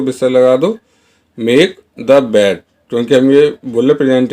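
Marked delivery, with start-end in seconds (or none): 1.4-2.6 slow model sentence. Shown as a demonstration. Teacher modelling the English line for Hindi learners, very slow. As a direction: say each word slowly and clearly. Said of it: "कैसे बोलेंगे इसको".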